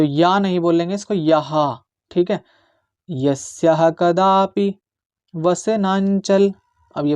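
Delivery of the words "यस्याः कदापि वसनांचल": slow, careful Sanskrit verse recitation; measured shloka recitation. Shown as a demonstration. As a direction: chant each syllable slowly and clearly. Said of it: "इसका मैं उच्चारण सिखाऊंगा आपको".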